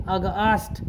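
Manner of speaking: अगस्त with its a drawn long, as a-gaast; अगस्त said slowly, with a long middle vowel. Shown as a demonstration. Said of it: "थोड़ा सा खींचेंगे".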